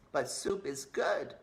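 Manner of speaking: slow, gentle mouse voice; slow earnest mouse Despero; little mouse voice. Acted. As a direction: say it simply and slowly.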